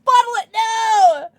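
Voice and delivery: loud, high wail; big high-pitched shout; crying out. Real, not acted. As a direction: wail it out, overcome. Crying out, overcome by tears.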